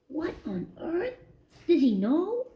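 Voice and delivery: high, hushed alarmed mouse; panicking inwardly at being found out; astonished thoughts. A narrator's reading. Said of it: "Christopher thought in astonishment".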